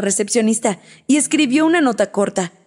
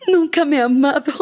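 higher, sobbing through a broken laugh; crying laugh; 7 semitones higher than usual. A narrator's reading. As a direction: let it break between laughing and crying. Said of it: "Luciana no podía dejar de llorar". (Luciana solloza entre risas amargas)

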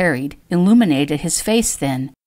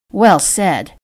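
grumbling; 3 dB louder than usual. Acted. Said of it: "Eula grumbled".

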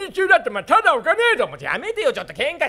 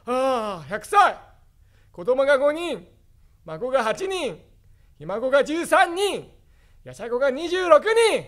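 put-on old grandpa; 5 semitones higher, slower than usual. Grandpa boasting, old man voice.

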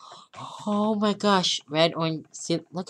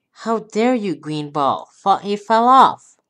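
frustrated yell; 2 semitones higher, 5 dB louder than usual. Real, not acted. Ball falls off the track.

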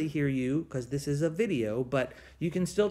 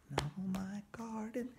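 breathy whisper of the song line; whispered call; 3 semitones higher, 13 dB quieter than usual. Acted. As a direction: whisper it for the kids to answer.

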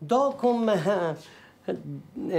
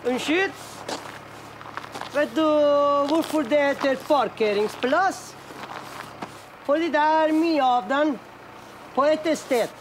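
sarcastic; 7 semitones higher than usual. Real, not acted. Mocking a worker about parking.

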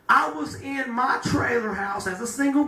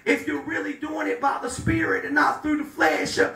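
raised, driving preacher's cadence; preaching at full force; 2 semitones higher than usual. Acted. Pastor urging the church to walk in the Spirit, in a raised preaching voice. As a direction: lift the congregation toward the promised blessing.

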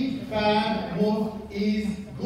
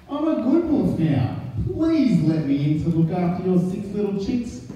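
sweetly; 4 dB louder than usual. Acted. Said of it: "said Big Bad Wolf sweetly".

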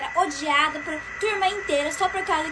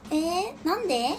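mock anime cute voice; 2 semitones higher, 4 dB quieter, slower than usual. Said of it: "falando com voz fofinha, que nem de anime".

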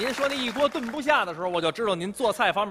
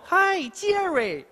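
high, very slow drawn-out Hi, Jerry; a hint of dad calling back; dad's cartoon greeting; 10 semitones higher, much slower than usual. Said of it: "他叫我".

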